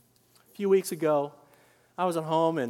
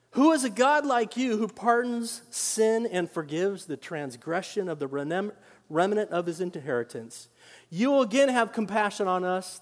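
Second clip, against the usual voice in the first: scripture reading. Acted. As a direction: proclaim the verse to the congregation.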